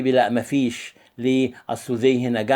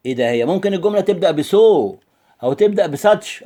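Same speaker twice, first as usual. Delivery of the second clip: mock surprised student; 4 semitones higher, 4 dB louder than usual. Teacher voices surprised student.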